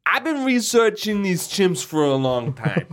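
tough guy laying down the law. Pretend. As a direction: state it like a tough boss. Tough-guy redo of the line.

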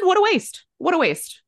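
high-pitched retold lament; mock lament. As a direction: lament it high, repeating for effect. Retold lament over singer's career.

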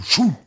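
quick spoken whoosh; imitated whoosh. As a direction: mimic a shell launching. Imitates the mortar shot going off.

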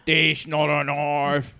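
put-on hammy British accent. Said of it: "Hello, governor".

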